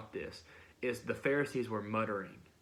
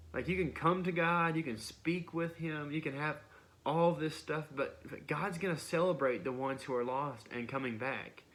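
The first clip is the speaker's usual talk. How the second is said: fervent plea; 4 semitones higher than usual. Retold or imitated. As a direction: call out to the Pharisees with passion.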